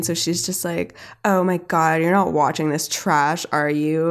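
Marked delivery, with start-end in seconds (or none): 1.3-4.1 put-on mildly sneering teen; edgy teen disdain. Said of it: "like, an edgy teen".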